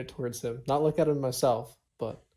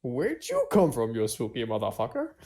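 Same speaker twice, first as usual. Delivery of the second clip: brash challenge. Acted. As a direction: stretch the question out with swagger. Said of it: "no, I, I would be very spooked".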